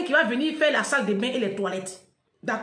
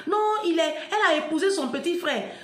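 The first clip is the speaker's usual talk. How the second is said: a touch higher, scornful imitation of gossip; mocking the commenters; 5 semitones higher than usual. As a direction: parrot the comment with a sneer. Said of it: "vous mettiez des commentaires en bas". (imitation moqueuse des commentateurs)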